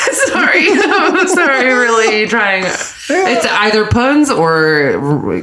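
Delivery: laughing through the apology; can't stop giggling. Real, not acted. Giggling apology after a pun.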